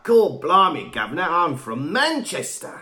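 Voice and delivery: hammed-up mock Manchester accent; bad Manchester accent. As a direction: imitate a Manchester accent badly. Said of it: "tries to do your accent".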